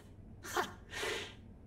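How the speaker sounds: defiant laugh. Acted. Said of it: "laugh in the face of death".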